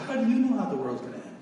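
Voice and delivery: yelling up at the killer in the next block; yelled question. Retold or imitated. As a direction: shout the question across the cell block. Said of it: "And I yelled at him".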